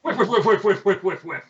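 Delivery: high, rapid-fire taunting whiffs; mocking whiffs. Player mocking the game master's missed shots, high taunting. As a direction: taunt each miss in a high voice. Gloats as the enemy's shots miss.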